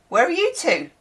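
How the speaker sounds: lightly voiced Bristol accent, pitched high; high swoop in a Bristol lilt; Bristol saying. Shown as a demonstration. Vlogger showing another local saying, Bristol accent. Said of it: "Or you can also say that".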